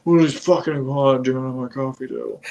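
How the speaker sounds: fast, lightly put-on Nick Cage rant; Nick Cage impression. Friend mimics Nick Cage's movie line, fast and hammed-up. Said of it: "And then it just goes back to Nick Cage".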